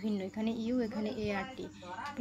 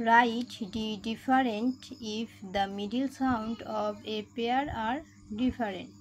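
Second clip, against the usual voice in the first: very slow, word by word reading; teacher reading the English instruction slowly to pupils, very slow; much slower than usual. Shown as a demonstration. Teacher reads English instruction aloud.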